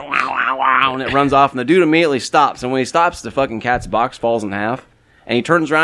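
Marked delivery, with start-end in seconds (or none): 0.0-0.9 mock cat yowling in quick bursts; imitated cat yowl. Storyteller imitating the attacking cat, yowled noise. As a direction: wail like an angry cat. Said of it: "and you hear it".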